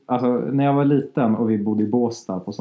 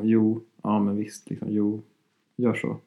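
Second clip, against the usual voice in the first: terse Norrland reply; 3 dB quieter, slower than usual. Shown as a demonstration. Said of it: "väldigt fåordig".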